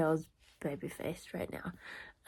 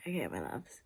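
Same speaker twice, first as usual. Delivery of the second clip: whispering; 5 semitones lower than usual. Real, not acted. Vlogger whispering greeting at night.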